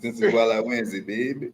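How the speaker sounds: put-on light New Orleans accent, teasing. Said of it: "I'm gonna get my New Orleans boy".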